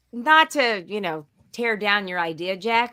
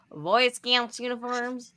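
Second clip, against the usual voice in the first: slow mock Midwestern Boy Scouts uniforms; imitating Midwestern accent; 3 semitones higher, slower than usual. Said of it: "the most Midwestern accent possible".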